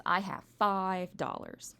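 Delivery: slow, imitated Southern drawl; mock Georgia accent, drawn out. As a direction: stretch it out like a man from Georgia. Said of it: "he's got this thick Southern accent".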